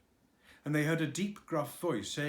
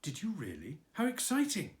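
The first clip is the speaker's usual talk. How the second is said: excited; 5 semitones higher than usual. Acted. Christopher Robin reacting to Eeyore.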